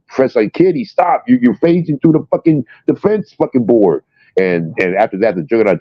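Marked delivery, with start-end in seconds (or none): 0.1-4.0 mock exasperated yell. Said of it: "he's like".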